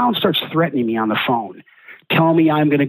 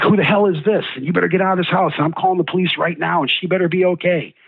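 higher, heated yelling down the phone; flipping out; 5 semitones higher than usual. Retold or imitated. Scared boyfriend yelling at a strange man answering, furious. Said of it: "again, I flip out".

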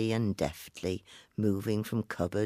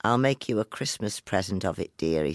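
put-on old woman voice. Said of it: "said the old woman".

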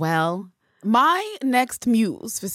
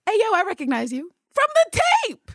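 higher and louder, calling out; 5 dB louder than usual. Retold or imitated. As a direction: shout it across a fight. Lover in fight calls out.

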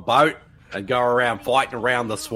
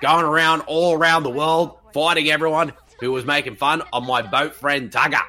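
Russell Crowe impression. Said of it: "Did somebody say Tugger? It's Russell Crowe here".

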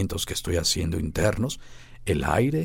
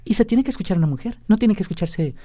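man doing a woman's voice; 5 semitones higher, 4 dB louder than usual. Shown as a demonstration.

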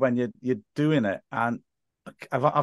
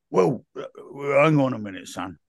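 lightly voiced stalling hard man; a hint of a tough-guy impression, dropping away on the last word; Ray Winston; 3 semitones higher than usual. Receptionist stalling a desperate commentator, light hard-man impression. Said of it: "and not Ray Winston".

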